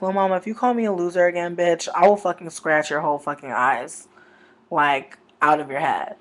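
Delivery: loud, fast rant of over-the-top threats; mock furious threat. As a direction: tear into her down the phone. Threatening Lil Mama on the phone.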